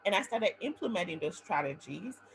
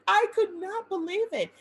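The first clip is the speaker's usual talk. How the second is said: giggling disbelief, higher and louder; laughing; 11 semitones higher, 6 dB louder than usual. Real, not acted. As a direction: laugh through the words. Laughing at the memory.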